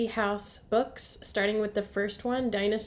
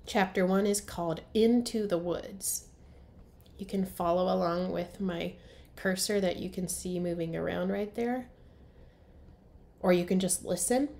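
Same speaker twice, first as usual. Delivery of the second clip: storybook read-aloud for young kids, characters voiced; story narration. A narrator's reading. Teacher reading to first graders, lively storybook narration.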